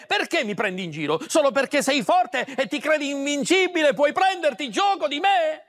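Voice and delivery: quick, indignant reproach; angry reproach. Acted. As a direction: scold him for mocking her. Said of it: "si arrabbiò moltissimo".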